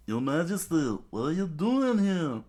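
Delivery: high, loud cry of astonishment; startled outcry. Acted. Startled servant finding the king following along, astonished. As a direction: exclaim in shock at a ruler.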